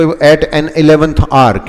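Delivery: drawn out for learners; slow model phrase. Shown as a demonstration. Teacher slowly modelling the phrase for students. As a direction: stretch each word out slowly. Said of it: "teacher models the idiom".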